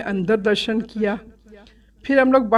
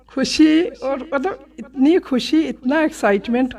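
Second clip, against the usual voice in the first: joyful; 3 semitones higher, slower than usual. Real, not acted. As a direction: savour the joy, stretching it. Receives huge bouquet blessing. (बहुत खुशी से, खींचकर)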